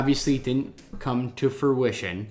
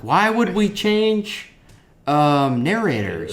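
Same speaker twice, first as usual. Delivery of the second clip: confused; 7 semitones higher, slower than usual. Retold or imitated. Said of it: "'Cause I was like".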